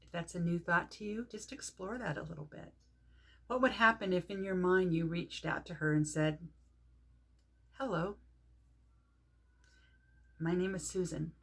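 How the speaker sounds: soft, tentative exploration with long pauses; guided meditation. Shown as a demonstration. Teacher inviting listeners to greet Mother Earth in mind, guided meditation. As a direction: offer it gently, leaving room after each phrase.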